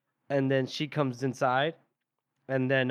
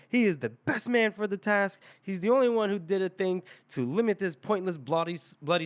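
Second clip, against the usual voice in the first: a touch of a sharp, raised protest; mild retold snap; 6 semitones higher than usual. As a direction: snap back in defence of her father, understated. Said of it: "And she snaps".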